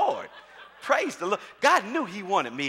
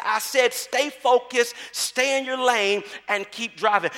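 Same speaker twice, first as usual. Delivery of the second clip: firm mother, voice slightly raised; mildly raised, insistent mama voice; 3 semitones higher, slower than usual. Retold or imitated. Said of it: "her mama raises her voice".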